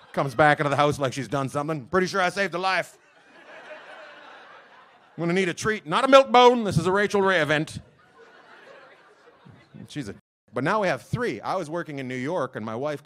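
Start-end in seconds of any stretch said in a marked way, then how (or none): 1.9-7.8 mock smug dog. Dog voiced bragging for treat.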